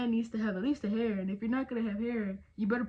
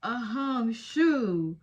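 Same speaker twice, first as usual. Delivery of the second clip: snore imitation; 5 dB louder, much slower than usual. Shown as a demonstration. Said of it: "I'm more of a".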